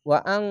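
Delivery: ওয়া আং with the ng hummed long; hidden nasal n. Shown as a demonstration. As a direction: hold the end of ওয়া আং in the nose. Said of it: "ইকফা গুন্না". (ওয়া আং-এ ইকফা গুন্না)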